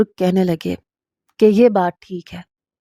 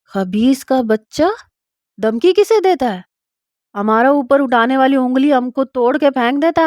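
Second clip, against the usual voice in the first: angry elder; 4 semitones higher than usual. Acted. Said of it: "جرگے کے بڑے سرپنچ کہنے لگے".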